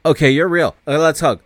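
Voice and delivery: excited relief after the mirror check; relieved. Retold or imitated. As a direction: blurt it out, suddenly overjoyed. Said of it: "He's like".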